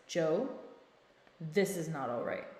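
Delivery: firm, matter-of-fact teacher voice; you mean business, say it level. Shown as a demonstration. Stopping an escalated partner in a calm teacher voice. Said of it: "Get on your teacher voice".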